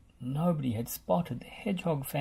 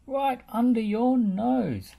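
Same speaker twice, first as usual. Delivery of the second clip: urgent call; 10 semitones higher, 5 dB louder, slower than usual. A narrator's reading. Scoop urges Rolly.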